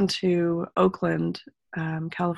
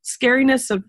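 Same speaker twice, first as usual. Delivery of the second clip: retold tearful fear; 4 semitones higher than usual. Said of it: "this fear kind of hitting me".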